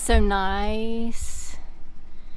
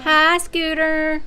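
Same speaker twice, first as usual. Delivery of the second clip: pet greeting; 6 semitones higher, much slower than usual. Real, not acted.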